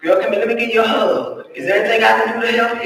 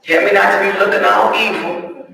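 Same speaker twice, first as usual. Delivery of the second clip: sorry prayer. Retold or imitated. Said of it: "I said".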